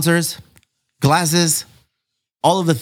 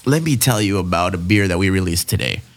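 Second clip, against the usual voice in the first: radio voice; 3 semitones lower than usual. Acted. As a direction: read it like a beer ad on air. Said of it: "I've perfected my radio voice".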